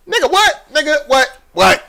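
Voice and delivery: high, stunned disbelief; can't believe the no comment; incredulous nigga what. Real, not acted. Friend baffled by the player's no comment answer, stunned disbelief.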